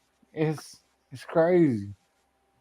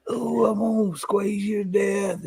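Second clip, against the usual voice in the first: lightly sugary spoof of a cuddly person; mock gushy hugger; 3 semitones higher, 3 dB quieter than usual. Man parodying huggy people on stream, light mock gush. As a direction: tease the squeeze-you-to-death type. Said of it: "I'm just not like".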